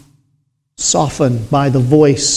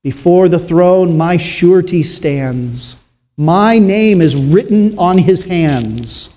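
hymn recitation. Acted. Preacher reciting a hymn to the congregation, solemn.

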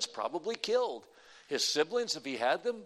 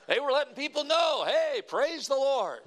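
preaching at full force; 8 semitones higher, 6 dB louder than usual. Real, not acted. Preacher telling church the prisoners praised loudly, shouting. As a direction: shout the praise so the whole jail hears.

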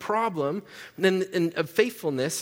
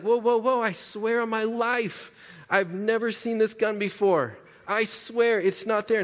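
protesting suspect; 5 semitones higher than usual. Retold or imitated. Suspect protesting about the gun.

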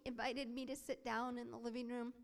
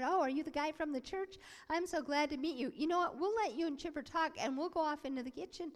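eager father, higher-pitched; acted glad welcome; 4 semitones higher than usual. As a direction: play a pleased dad welcoming the church visitor. Father gladly greets the visitor.

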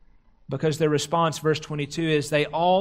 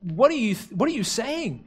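halting, mildly bewildered retelling; imitating someone taken aback, with false starts. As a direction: act mildly stunned, stumbling into the question. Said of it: "He's just taken aback".

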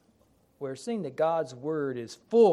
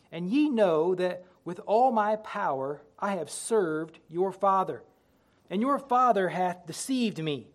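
solemn King James scripture reading; booming biblical narration. Acted. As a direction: read it like the pulpit Bible. Reads scripture aloud in sermon.

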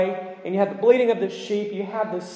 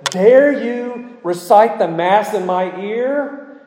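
mildly acted outrage, higher and slow; indignant outburst; 5 semitones higher, 4 dB louder, much slower than usual. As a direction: challenge the minister in mock indignation, drawing it out.

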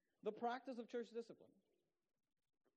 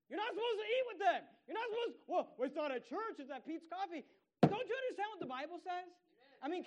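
much higher and louder, exasperated yelling; shouting rebuke; 10 semitones higher, 11 dB louder than usual. Real, not acted. Pastor yelling at members who still socialize, exasperated shout. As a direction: blast it like you can't believe they missed it.

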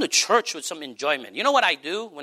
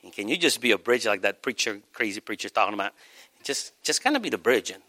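low, intimate voice of God; God nuzzling close; 9 semitones lower, 3 dB quieter than usual. Acted. God coaxing a believer to be a bridge, low and intimate. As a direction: speak low, as if close at the listener's ear. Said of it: "if God nuzzles over to you and says".

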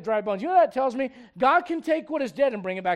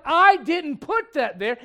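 mock stern Lord; 6 semitones higher, 8 dB louder, much slower than usual. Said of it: "The Lord's like".

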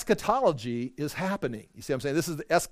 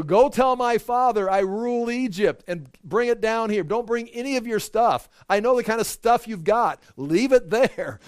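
exuberant command; 7 semitones higher, 4 dB louder than usual. Retold or imitated. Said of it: "And so he go".

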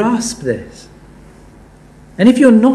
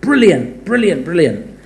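mock gushing praise. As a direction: parody the article's over-the-top cheering. Mocking the article's glowing praise.

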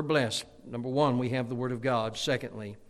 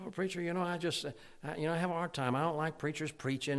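higher-pitched hesitant griping; mock complaint; 5 semitones higher than usual. Churchgoer griping to the preacher about preaching, mock complaint. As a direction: imitate a reluctant complainer, pitched up.

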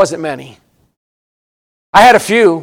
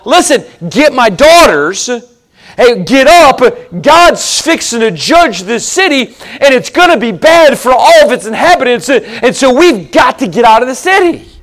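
urgent warning; 2 semitones higher than usual. Acted. Preacher voicing Lot to his sons-in-law, urgent and raised. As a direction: get them out before it falls.

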